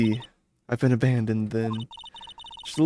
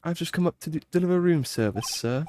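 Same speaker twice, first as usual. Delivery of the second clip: high, eager hotel bellboy; polite servant bowing and scraping; chirpy old-fashioned bellhop; 5 semitones higher than usual. Acted. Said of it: "I am the bellboy of this establishment".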